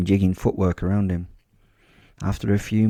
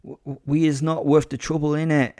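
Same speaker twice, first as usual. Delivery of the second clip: put-on higher-pitched boy begging in street slang; pleading street boy; 7 semitones higher than usual. Boy offering surrender to his attacker, pleading. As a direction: plead to be left alone, with a stammer. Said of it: "Such a butchery of our beautiful mother tongue".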